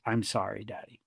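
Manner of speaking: put-on tiny hushed child apology; small apology. Toddler apologizes after panic.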